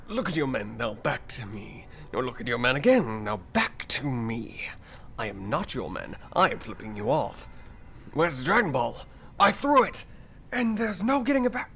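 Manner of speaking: rising into a shout at the end; Vegeta impression. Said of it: "Can you do a Vegeta one".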